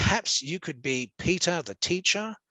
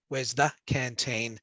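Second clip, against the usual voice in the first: said quickly; 2 semitones lower than usual. Retold or imitated. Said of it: "we can imagine he said it very quickly".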